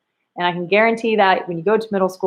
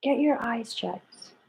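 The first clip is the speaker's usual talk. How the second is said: quiet slow muttered version; 3 semitones higher, 10 dB quieter, slower than usual. Shown as a demonstration.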